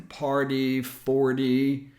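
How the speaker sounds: the T after R tapped lightly. Shown as a demonstration. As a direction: flap the T in "party" and "forty". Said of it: "It can also happen after an R".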